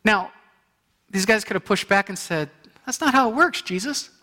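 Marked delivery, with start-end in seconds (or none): 2.8-4.1 mock objecting leper; higher, louder indignant protest. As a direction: play the doubting leper pushing back. Lepers' imagined pushback.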